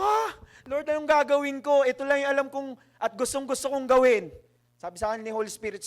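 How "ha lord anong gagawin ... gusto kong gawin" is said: mock-shocked plea to the Lord; surprised protest. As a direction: protest like you can't believe it. Surprised protest to God, retold.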